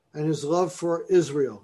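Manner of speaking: Israel leaned on at the end; stress on Israel. Shown as a demonstration. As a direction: give Israel the weight. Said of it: "And I emphasize the word Israel".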